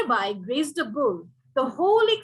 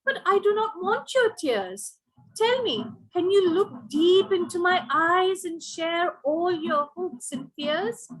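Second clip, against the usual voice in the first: much higher, slower yearning peahen; pleading peahen; 6 semitones higher than usual. Acted. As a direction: ask him earnestly, voice lifted high. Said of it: "Said the peahen to the peacock".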